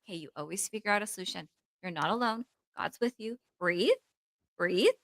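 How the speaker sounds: soft, quick reassuring murmur; soothing self-talk. Retold or imitated. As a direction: talk yourself down gently.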